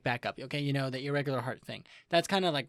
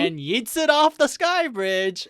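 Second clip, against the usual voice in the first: loud, high, drawn-out exclamation; hyped retelling; 10 semitones higher, 10 dB louder, slower than usual. Retold or imitated. Recapping the dramatic throw for co-host, hyped. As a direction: stretch it out big, high and loud.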